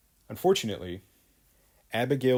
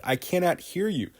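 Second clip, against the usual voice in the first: stern judge; 7 semitones higher than usual. Acted.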